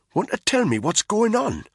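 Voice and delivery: rough mate voice; Spud voice. A narrator's reading. Spud's voice.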